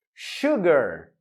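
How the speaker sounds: "Sugar" said shoo-gar with a sh sound; pronunciation of sugar. Shown as a demonstration. Teacher warning students about the sound, "Sugar" with sh. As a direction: start "Sugar" with sh, not s. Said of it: "Cuidado com essa pronúncia".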